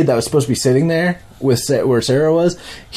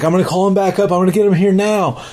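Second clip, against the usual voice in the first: mild panic; 6 semitones higher, faster than usual. Retold or imitated. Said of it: "she's freaking out".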